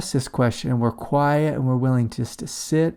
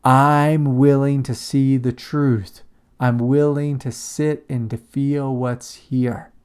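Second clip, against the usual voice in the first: slow, sincere, each word given time; quiet inner prayer; slower than usual. Shown as a demonstration. Teacher demonstrating a prayer said to oneself, slow and sincere. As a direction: offer it to yourself like a vow, slowly. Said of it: "a little prayer that you say to yourself".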